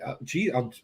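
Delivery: soft, fast, helpless mumble; mock dumb kid. Retelling his younger self to the Army recruiter, fast and soft. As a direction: play the lost teen rattling it off.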